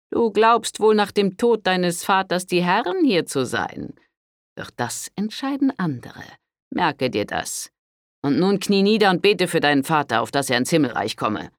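high, loud, stern rebuke of a priest. A narrator's reading. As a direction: scold her like a severe father confessor. Priest lectures Pandolfina. (strenger Pater, tadelnd)

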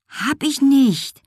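high, drawn-out denial; protesting. A narrator's reading. Girl contradicts her teasing brother, high protesting voice. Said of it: "widersprach Wolke".

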